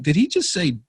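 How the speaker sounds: can't believe the call came from abroad; disbelief. Retold or imitated. Retelling his reaction to an overseas voicemail, astonished. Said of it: "I'm like".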